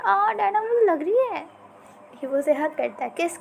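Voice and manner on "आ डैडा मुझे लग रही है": a sudden high, loud little yelp of pain; ouch in pain. Acted. Son yelps at his father pulling his ear, in pain. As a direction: cry out as the ear gets tugged.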